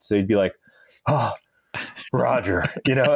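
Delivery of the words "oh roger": lightly imitated deadpan movie-nerd voice; Napoleon Dynamite. Officer imitating his driver's radio reply, mild nerd voice. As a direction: do a mild impression of an awkward nerd. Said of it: "he talked like Napoleon Dynamite".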